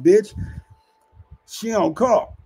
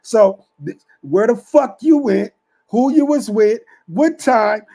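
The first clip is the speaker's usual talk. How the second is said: much louder, higher furious questioning; angry yell; 4 semitones higher, 5 dB louder than usual. Retold or imitated. Pimp yelling at his worker about where she went. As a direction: bark each question at her.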